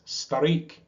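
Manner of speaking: high jeering squawk of a gull; screaming gull. A narrator's reading. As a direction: shriek the insult like a gull. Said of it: "screamed a burgomaster gull".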